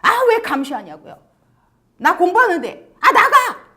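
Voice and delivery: acted flare-up building to a loud shout; angry outburst. Teenager caught by parent checking in, acted angry outburst. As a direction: snap back, then yell them out. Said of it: "버럭 화를 냅니다".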